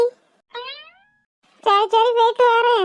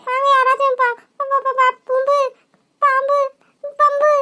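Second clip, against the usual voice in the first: frightened stammer; 3 semitones higher than usual. Acted. Child stammers snake in panic.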